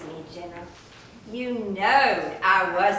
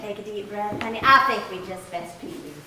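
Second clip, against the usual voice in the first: soothing; 3 semitones lower than usual. Acted. Wife calming angry husband.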